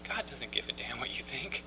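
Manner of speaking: soft, laughing imitation of a counselor; retold laughing. Amused counselor answers the newcomer who won't believe, retold with laughter. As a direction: say it quietly through a chuckle. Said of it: "he just starts laughing".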